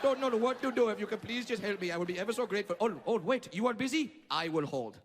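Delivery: a lighter mock Indian accent, pleading. Friend pleading on the phone, mock Indian accent. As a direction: play the polite desperate caller in an Indian accent. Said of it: "your Indian friend just called you like".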